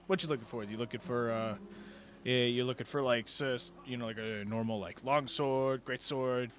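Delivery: a hint of a proud merchant showing his stock; eager blacksmith.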